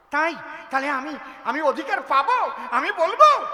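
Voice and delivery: eager laughing ask. Acted. Bride eagerly asks permission.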